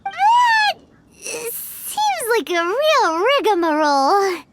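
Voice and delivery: exasperated complaint. Acted. Paimon complains, drawn out.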